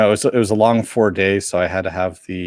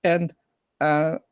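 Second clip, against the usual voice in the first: put-on tween girl voice; 7 semitones higher than usual. Imitating tween fans at panel.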